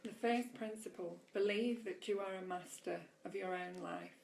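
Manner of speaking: deliberate inspirational read-aloud. A narrator's reading. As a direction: read the teaching out to listeners with measured emphasis. Reads aloud from book.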